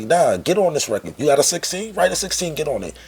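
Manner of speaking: lightly voiced producer insisting; pushy producer. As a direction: push him onto the record. The speaker urging him onto track.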